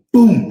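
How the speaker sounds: sudden loud boom imitating a pop. Teacher showing pupils how fast it burst, loud boom. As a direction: punch out a bang.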